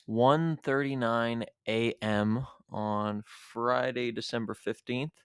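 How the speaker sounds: talking around a retainer; wearing a retainer. Real, not acted. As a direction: speak with a retainer in your mouth. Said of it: "if my voice sounds kinda funny, it's because I have my retainer in".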